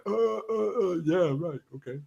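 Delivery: mock lost-for-words stammer; mock flustered. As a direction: act out a stumped doctor faltering. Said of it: "he's like, that going".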